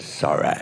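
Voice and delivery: "sorry" ending in an exaggerated "ay". Comedian quoting the airline rep, "sorry" said with an "ay". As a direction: mimic an insincere "sorry", last syllable as "ay". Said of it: "With an A Y".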